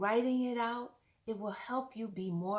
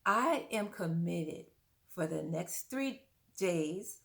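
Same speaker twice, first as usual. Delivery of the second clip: slow read statement; slower than usual. Shown as a demonstration. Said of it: "It can go something like this".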